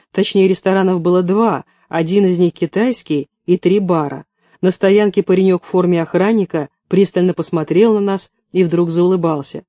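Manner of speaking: ordinary delivery, nothing marked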